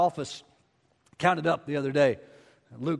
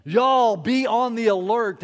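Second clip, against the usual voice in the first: Texan; 5 semitones higher, 5 dB louder, slower than usual. Acted. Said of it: "If Paul were in Texas".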